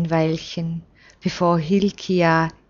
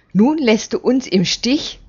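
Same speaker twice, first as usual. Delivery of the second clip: angry; 5 semitones higher than usual. Acted. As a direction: reproach him with mild wrath. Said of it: "zürnt Jojareb".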